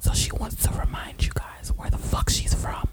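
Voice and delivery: breathy ASMR whisper, unvoiced. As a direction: whisper close to the mic like an ASMR video. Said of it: "A S M R review".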